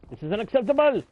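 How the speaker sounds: high, loud, hammed-up indignation; over-the-top scandalised yell; mock outrage. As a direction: shout it in exaggerated outrage, stretching the last word. Mock outrage over missed carrot.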